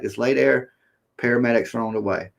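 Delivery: quiet, steady trooper voice; calm. Retold or imitated. Trooper telling the injured man to relax, calm and quiet. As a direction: soothe him like a cop at a wreck. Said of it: "That's all he says".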